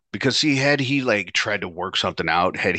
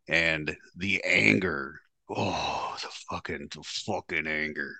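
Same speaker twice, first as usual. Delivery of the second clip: seething; 3 semitones lower, 7 dB quieter, slower than usual. Real, not acted. Recalling his rage.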